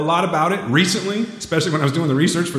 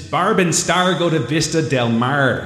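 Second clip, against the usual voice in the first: put-on slow, stretched-out title with accented Rs; drawn-out R accent; slower than usual. Announcing the romantic comedy pick of the year, drawn-out R accent. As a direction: lean on the R accent in Barb, Star and Mar. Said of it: "say it with the R like that".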